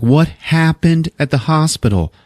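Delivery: high, urgent mock wife voice; anxious wife. Wife questioning her husband about hospital, anxious.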